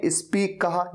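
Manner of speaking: "स्पीक" with an extra i before the s; mispronounced speak. Shown as a demonstration. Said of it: "ई को लगा देते हैं शुरुआत में".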